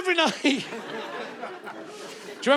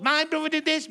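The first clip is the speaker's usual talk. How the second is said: moaning prince; 2 semitones higher than usual. Retold or imitated. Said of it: "he wrote a book".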